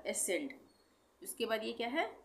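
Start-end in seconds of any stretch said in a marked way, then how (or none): 0.1-0.5 एसेंड with a plain S, ending in D; silent C, final D. Shown as a demonstration. Teacher showing the second word, एसेंड ending in D. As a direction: say एसेंड as "a-send". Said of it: "सी का उच्चारण नहीं होगा".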